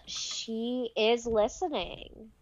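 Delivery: slow, soft conspiracy hush; ominous warning. Pretend. Conspiracy joke about Alexa spying.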